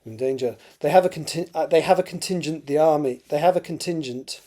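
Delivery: put-on amateur Scottish accent for dialogue; Crothers's lines in an imperfect Scottish accent. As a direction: read it in a rough Scottish accent. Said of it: "Sorry about the terrible Scottish accent".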